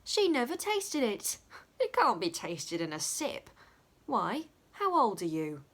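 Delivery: comic outrage; lightly voiced Dick scolding the world; Dick, indignant. A narrator's reading.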